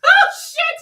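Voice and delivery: high shrieking laughter; screaming laugh. Real, not acted. Streamer shrieking with laughter over the video.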